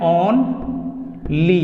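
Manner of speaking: "only" broken slowly into "on" and "lee"; "only" sounded out slowly with a gap; corrected pronunciation. Shown as a demonstration. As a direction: teach "only" as two drawn-out syllables, on-lee. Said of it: "इनको हम लोगों को पढ़ना है".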